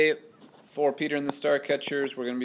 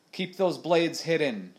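a touch of a raised command; firm order, a little higher; pirate captain ordering his men, lightly raised; mild shout; 5 semitones higher, 4 dB louder than usual. A narrator's reading. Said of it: "shouted Stash".

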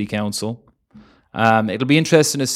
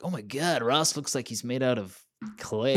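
put-on American accent; 6 dB quieter than usual. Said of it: "That was my American accent".

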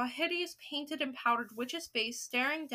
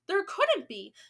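higher, louder disbelief; acted shout; 6 semitones higher, 6 dB louder, slower than usual. Other witches doubting the report, shouting. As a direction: protest with a raised voice. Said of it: "the others shouted".

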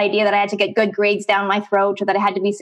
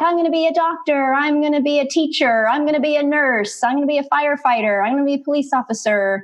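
higher, lightly mimicked peppy friends; friends' eager plans; 5 semitones higher than usual. Teen girl mimicking classmates' sure career plans, higher. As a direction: rattle off classmates' confident plans. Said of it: "all my friends were like".

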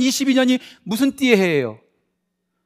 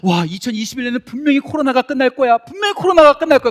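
mock confident hope; 4 semitones higher, 4 dB louder than usual. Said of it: "우리가 이천이십일 년을 맞이할 때 어땠습니까".

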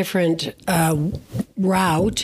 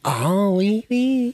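mock French; much slower than usual. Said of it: "You do it. French me".

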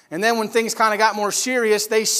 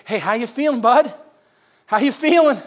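cheery checking-in; 4 semitones higher, 4 dB louder than usual. Acted. Sisters check on sick brother daily.

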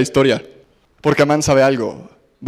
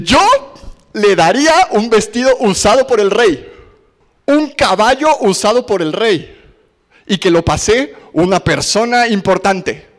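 louder and higher, savoring every luxury; smug pride; 5 semitones higher, 3 dB louder than usual. Retold or imitated. Amán boasting to the king about his own honor, smug. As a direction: puff up like a man sure he's the chosen one.

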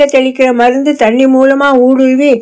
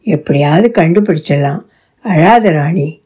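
gentle consoling; 7 semitones lower than usual. Acted. Consoling crying Rani in story.

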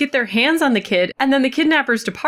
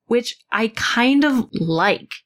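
a slow whispered admission; whispered aside; slower than usual. Real, not acted. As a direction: whisper the confession to yourself.

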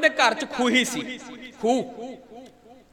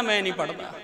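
flat final refusal; 6 semitones lower, 7 dB quieter, faster than usual. Retold or imitated.

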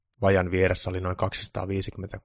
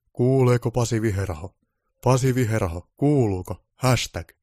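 calling into a mic; 4 semitones higher, 8 dB louder than usual. Acted. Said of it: "huuteli radion mikrofoniin".

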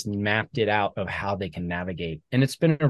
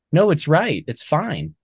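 higher, louder mock self-argument; insistent inner rebuttal; 6 semitones higher, 5 dB louder than usual. Veteran arguing with his own inner doubt, insistent. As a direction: argue back at the nagging inner doubt.

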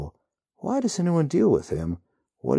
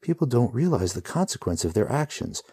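growling; 7 semitones higher, 3 dB louder than usual. A narrator's reading. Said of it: "the hero growls".

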